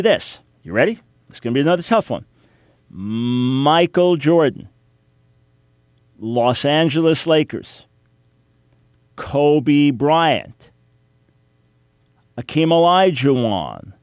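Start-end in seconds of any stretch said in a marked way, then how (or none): 2.9-13.9 measured names with long pauses; mock quiz. Host gives basketball clues to slow pupils, mock quiz. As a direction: deal out each clue and wait.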